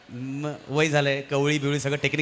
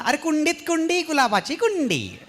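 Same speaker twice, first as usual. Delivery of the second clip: housewife reciting ukhana; 12 semitones higher, slower than usual. Retold or imitated. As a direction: recite the rhyme like a proud housewife on stage. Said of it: "त्या म्हणाल्या". (उंच, ठसक्यात उखाणा म्हणणारी गृहिणी)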